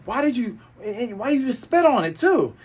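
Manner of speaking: high, loud indignant yell; mock angry Luffy. Luffy shouting at Buggy over his ruined hat, mock angry. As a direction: demand it like a furious kid.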